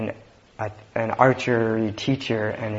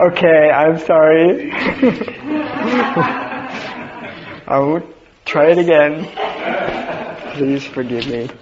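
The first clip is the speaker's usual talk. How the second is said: mock apology, higher and louder, through laughter; submitting student; 7 semitones higher, 7 dB louder than usual. Defeated student gives in to the teacher, hammed-up apology. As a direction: play a comically beaten pupil begging pardon. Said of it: "submitted and".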